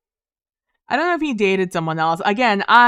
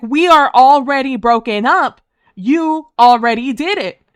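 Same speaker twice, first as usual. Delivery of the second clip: exasperated retort; 5 semitones higher, 8 dB louder than usual. Retold or imitated. Retold angry reply to boyfriend.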